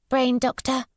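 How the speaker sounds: put-on a withdrawn child speaking in fragments; voiced odd young girl. A narrator's reading.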